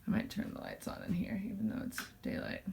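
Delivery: soft whispered aside; whispering. Real, not acted. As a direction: whisper it to yourself. Aside while fixing lights.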